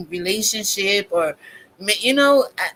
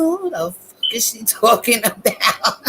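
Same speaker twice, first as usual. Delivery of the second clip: laughing disbelief. Retold or imitated. Retold reaction with laugh.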